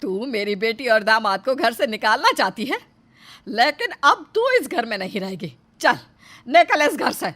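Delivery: stern, angry ordering out; angry banishment. Acted. Mother-in-law throwing her out of the house, angry. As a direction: order her out with rising anger.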